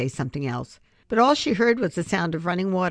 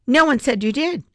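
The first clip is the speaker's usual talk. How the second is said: sad, firm; 10 semitones higher, 7 dB louder than usual. Acted. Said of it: "sad scowl".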